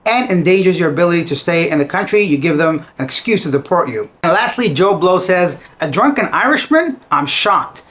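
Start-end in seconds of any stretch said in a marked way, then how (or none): 5.8-7.8 mildly sarcastic. Retold or imitated. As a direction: read it with a touch of feigned shock. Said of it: "A little bit of sarcasm there".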